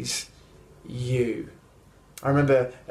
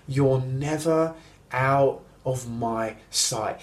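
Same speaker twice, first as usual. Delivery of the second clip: slow tender promise; 3 semitones lower, slower than usual. Acted. Preacher applying the father's words.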